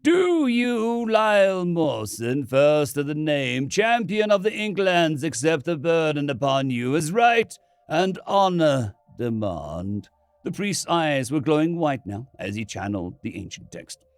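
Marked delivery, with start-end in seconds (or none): 0.0-10.1 solemn priest. Acted. Priest conducts solemn rite.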